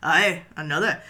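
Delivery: loud call back across the bar. Acted. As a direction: answer the order loudly. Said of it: "he's like".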